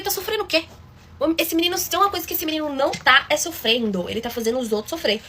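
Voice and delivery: retruca mais agudo, incrédula; indignação retomada. Retold or imitated. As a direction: rebate a desculpa do pai. Rebatendo o pai indignada. (indignada, rebatendo o pai)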